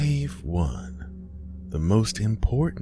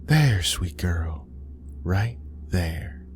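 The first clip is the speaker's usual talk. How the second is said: coaxing mother; slower than usual. Acted. Mother guides dying daughter's hand.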